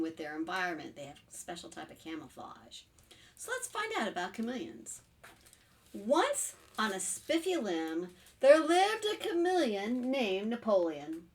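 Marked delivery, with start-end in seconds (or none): 5.9-11.2 slow, deliberate storybook opening; story narration. A narrator's reading. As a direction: ease children into the tale. Reads picture book aloud.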